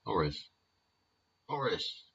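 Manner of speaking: softly savouring the name Horace; name savoured. Shown as a demonstration. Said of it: "It's a nice name".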